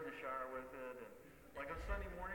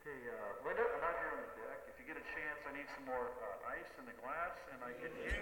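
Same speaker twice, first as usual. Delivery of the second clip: megaphone voice. Retold or imitated. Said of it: "megaphones to communicate with your spouse".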